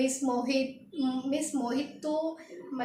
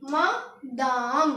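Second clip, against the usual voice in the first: मदाम drawn out very slowly, ending on a rise; very slow, rising मदाम; slow demo; 3 semitones lower, much slower than usual. Shown as a demonstration. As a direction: stretch मदाम out so learners catch each sound. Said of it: "confuse नहीं होना।".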